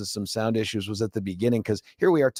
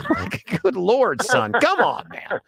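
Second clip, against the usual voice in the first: exasperated; 12 semitones higher, slower than usual. Real, not acted. Exasperated at son's reply.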